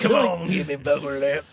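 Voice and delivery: slow, drawn-out movie villain taunt; slow booger lips impression. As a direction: drag out give me booger lips. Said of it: "That's pretty good".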